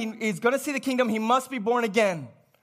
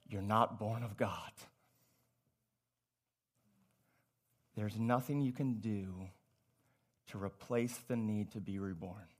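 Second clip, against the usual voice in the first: hushed sermon voice; 16 dB quieter than usual. Acted. Preacher to congregation, hushed and intimate. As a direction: drop to a low, soft murmur.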